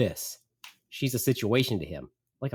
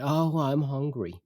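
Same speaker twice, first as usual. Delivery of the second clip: complaining mother; 3 semitones higher than usual. Retold or imitated. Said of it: "my mother's off again".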